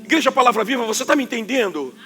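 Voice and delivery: ordinary talk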